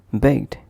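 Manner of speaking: "Begged" as one syllable ending in gd; correct voiced ending. Shown as a demonstration. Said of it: "pronounced as begged and not".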